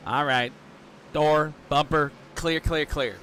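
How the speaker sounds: rhythmic radio spotter calls; T J's spotter cadence. Retold or imitated. Imitating spotter T J calling clear over the radio. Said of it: "you know how T J talks. He has this cadence about him".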